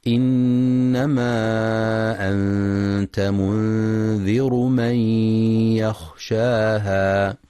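slow, melodic tajwid chanting; Quran recitation. Shown as a demonstration. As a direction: chant the verse slowly, drawing out the vowels. Recitação do versículo.

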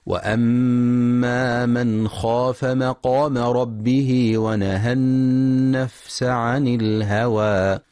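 slow, melodic tajwid chanting; Quran recitation. Shown as a demonstration. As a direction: chant the verse slowly, drawing out the vowels. Recitação do versículo.

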